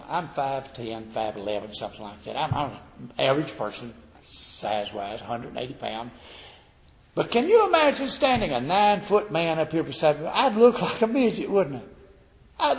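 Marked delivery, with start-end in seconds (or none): none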